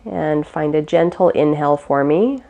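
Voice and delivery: calm, unhurried meditation guide; guided meditation. Real, not acted. Teacher guiding listeners through gentle breaths, calm guided meditation. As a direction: ease them gently through each breath, with long pauses.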